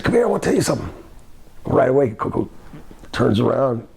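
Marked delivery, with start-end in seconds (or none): 0.0-0.9 higher-pitched summons; a hint of the boss beckoning; lightly voiced boss. Boss luring Coco over, lightly imitated summons. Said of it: "He said".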